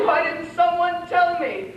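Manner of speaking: tickled, laughing question. Acted. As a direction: princess laughing at herself. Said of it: "and she's laughing".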